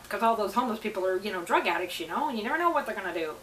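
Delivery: quick, fearful NIMBY neighbour voice; character voice. Pretend. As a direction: rattle it off like a nervous townsperson. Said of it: "You like my character voice?".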